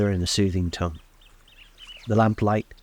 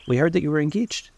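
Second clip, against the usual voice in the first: Tom's voice; 8 semitones higher than usual. A narrator's reading. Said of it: "Tom, echoing Daisy".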